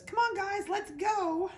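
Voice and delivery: high, loud rallying puppy voice; rally the littermates in a high, loud puppy voice; eager puppy's voice. Acted.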